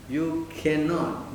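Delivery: "cannot" drawn out slowly; stress on cannot. Real, not acted. Teacher warning students about skipping morning program, stressed cannot. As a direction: draw out "cannot" as a firm ruling. Emphasising the key word to students.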